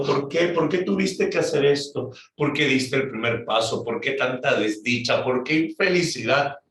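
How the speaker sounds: high, pleading cries of why; weeping lament. Acted. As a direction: wail the questions over her lover. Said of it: "Julieta lloraba mirándolo a Romeo".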